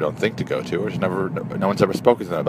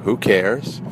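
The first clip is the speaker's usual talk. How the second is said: measured question-and-answer meditation phrases; lightly intoned call and response, breathing between phrases; guided meditation; 4 semitones higher, much slower than usual. Shown as a demonstration. Guide leading listeners through phrases on each breath, measured meditation delivery.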